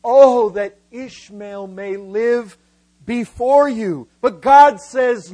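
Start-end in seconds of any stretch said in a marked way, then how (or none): 0.0-4.1 slow, loud, drawn-out plea; pleading. Acted. Abraham pleading with God for his son, loud and slow. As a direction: implore with long, raised, weighty words. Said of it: "He pleads with God".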